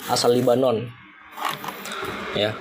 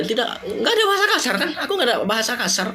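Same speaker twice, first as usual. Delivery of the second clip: incredulous laugh; 10 semitones higher than usual. Real, not acted. Baffled at being flagged.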